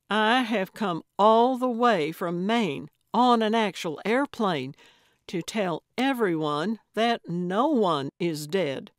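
a loud, formal proclamation; announcing. Acted. Gertrude announcing herself to the family at the door, loud and formal. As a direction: declare it like a town crier. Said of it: "cleared her throat and announced".

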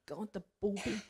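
softly smitten murmur; awed hush. Retold or imitated. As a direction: breathe it out lovestruck. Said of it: "women like me going".

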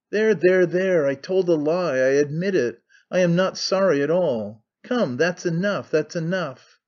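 hurried, placating, a touch of alarm; apprehensive. Acted. Pyotr soothing the furious Kirillov, a little apprehensive. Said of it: "started up apprehensively".

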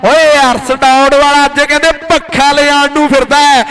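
rapid-fire kabaddi play-by-play; frantic rural sports commentary. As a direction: call the match live, hyped. (ਜੋਸ਼ੀਲੀ kabaddi commentary)

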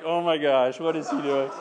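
neighbours' alarm. Retold or imitated. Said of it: "I hope they're not like".

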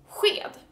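"sked" with a breathy hw sound at the start; Swedish sj-sound. Shown as a demonstration. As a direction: say sked as "hwed", open and airy. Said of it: "help me pronounce this word".

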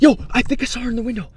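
loud, high startled cry; startled exclaim. Real, not acted. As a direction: blurt it out in alarm. Sudden sighting, exclaims.

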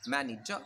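मैनेजर with a faint final r; light r sound. Shown as a demonstration. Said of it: "light सी sound देनी है".

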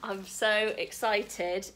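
ordinary talk

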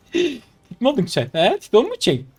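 put-on high baby-talk teasing; mock cooing. Streamer pretends to pity the opponent, mock cooing. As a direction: coo at them as if at a baby.

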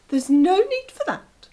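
high, whispered fox voice; a hushed, quick vixen; sly fox. Acted. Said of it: "she said".

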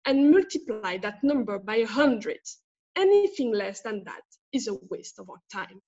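a lawyer demanding a bigger settlement, firm and steady; lawyer's reading. Acted. Actor reads a lawyer's demand to the defendant, firm and steady. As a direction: press the opposing side, lightly acted. Student performs lawyer's monologue.

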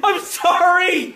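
slow, giggling sorry; laughing apology. Real, not acted. Son apologizing to his dad while still laughing. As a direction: laugh right through the apology.

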